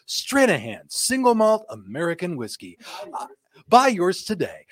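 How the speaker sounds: announcer selling a whiskey; hammed-up ad read; infomercial voice. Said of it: "sounding like an infomercial".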